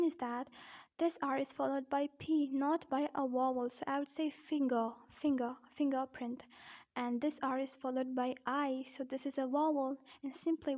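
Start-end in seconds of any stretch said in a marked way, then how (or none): 4.3-6.4 "finger" ending in 'guh', no R; silent first R. Shown as a demonstration. Teacher showing why R drops in "finger", R left silent. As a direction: drop the first R in "fingerprint", 'fing-guh-print'. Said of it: "not pronouncing the first R".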